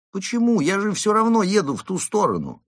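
very high character voice, protesting; insistent driver. Acted. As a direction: argue back in a high, put-on voice. Марио insists on giving a lift. (высоким голосом, настойчиво возражая)

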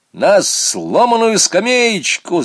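high, loud, slow eager answer; eager shout. A narrator's reading. Boy shouts his answer in class, eager. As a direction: blurt out the answer to the teacher. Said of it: "закричал Саня".

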